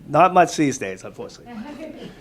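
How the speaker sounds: ordinary delivery, nothing marked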